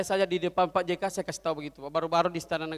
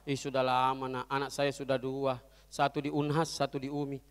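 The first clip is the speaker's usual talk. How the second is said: put-on old vendor; 6 semitones lower, 4 dB quieter than usual. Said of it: "kebetulan orang tua yang jualan".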